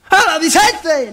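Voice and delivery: high, loud, slow drawn-out hello; hammed-up high old-man voice; high falsetto greeting. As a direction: stretch it out high like a squeaky villager.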